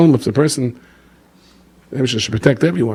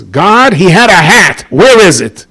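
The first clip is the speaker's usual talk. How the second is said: indignant complaint; 7 semitones higher, 7 dB louder, slower than usual. Retold or imitated. Grandmother complains to God.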